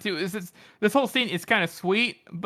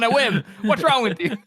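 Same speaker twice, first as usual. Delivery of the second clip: imitating a louder self-scolding; mock-scold yourself, voice raised; self-berating; 5 semitones higher, 3 dB louder than usual. Host voices the character berating herself right now, self-berating. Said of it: "like, berating herself right now".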